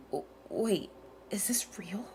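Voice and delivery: whispered disbelief. Real, not acted. Player stunned by Nikke's confession, whispering. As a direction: breathe it out, stunned.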